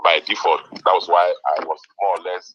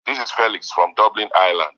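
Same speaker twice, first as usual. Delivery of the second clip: raised voice for a bad line; speaking louder. Real, not acted. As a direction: say it louder so the host can hear. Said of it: "please speak louder".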